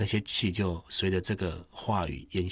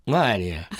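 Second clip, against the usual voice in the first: shy; 5 dB louder than usual. Retold or imitated. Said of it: "还是害羞".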